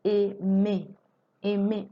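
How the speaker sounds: aimer said clearly with closed final e; model word. Shown as a demonstration. Teacher introduces the verb aimer clearly. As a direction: pronounce aimer ending on é. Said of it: "So I'm gonna pronounce it".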